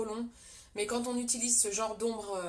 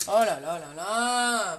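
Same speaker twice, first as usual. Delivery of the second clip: dismayed oh là là; 3 semitones lower, 8 dB louder, slower than usual. Real, not acted. Dismay at forgetting eye primer.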